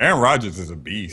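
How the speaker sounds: announcer read; radio voice. Pretend. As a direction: say it like a radio host. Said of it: "I'm speaking in my radio voice".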